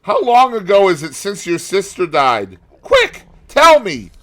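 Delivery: very high, loud, desperate demand; urgent. Acted. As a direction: press for an answer.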